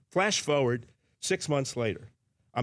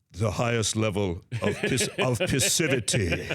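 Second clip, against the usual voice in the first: laughing quote. Retold or imitated. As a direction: fight back laughter on the punchline. Shaq's malapropism.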